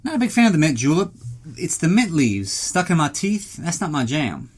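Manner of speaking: lightly voiced doubtful listener. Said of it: "you're thinking to yourself".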